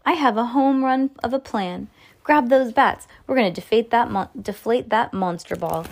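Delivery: Lucy thrilled with her plan; excited exclaim. Acted. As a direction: pitch the idea with excitement. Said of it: "Lucy exclaimed".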